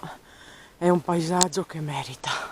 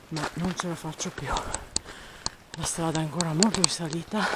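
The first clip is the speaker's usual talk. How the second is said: out of breath. Real, not acted. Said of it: "Scusate il fiatone".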